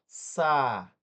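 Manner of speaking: "Sa-is-te" in three loud, separate syllables. Shown as a demonstration. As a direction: split Sa-is-te, the is standing alone. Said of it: "I ficou sozinho com S".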